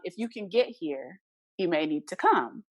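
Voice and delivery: slow, measured and composed; understated, unhurried request; calm. Retold or imitated. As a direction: take your time, keep it calm. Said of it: "You said that so calm".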